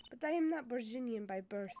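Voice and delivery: put-on light French accent. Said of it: "I'm gonna drop that accent".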